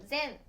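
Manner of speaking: 千 read "zen", with a voiced z. Shown as a demonstration. Teacher summing up the exception, zen. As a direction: start 千 with a z, "zen". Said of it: "千というふうに読みます".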